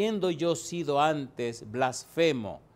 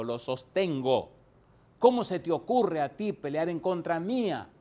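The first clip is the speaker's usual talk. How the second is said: voicing the Lord rebuking Paul; 2 semitones higher than usual. Preacher voices Jesus rebuking young Paul, stern and commanding. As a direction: speak as the Lord confronting a stubborn young man.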